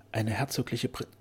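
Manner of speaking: stunned, unfinished phrase; faltering, cut off. A narrator's reading. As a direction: break off midway through "Prin-". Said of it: "stockte, er brachte das Wort nicht heraus".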